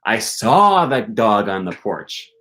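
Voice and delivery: saw stressed, slow. Shown as a demonstration. Teacher shows stress on saw, not smelled. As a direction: lean on saw. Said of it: "I didn't smell him".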